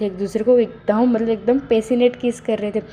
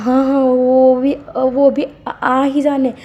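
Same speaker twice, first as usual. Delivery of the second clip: higher, louder flustered stammering; nervous stammer; 4 semitones higher, 4 dB louder, slower than usual. Acted. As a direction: trip over the words in panic. Wing startled by Len Sichen's name.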